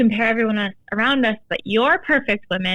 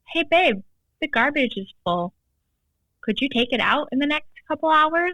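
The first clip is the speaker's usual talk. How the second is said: higher, sweet "Hey, babe" opening; sweet request; 5 semitones higher than usual. Retold or imitated. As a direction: ask nicely, like coaxing a partner.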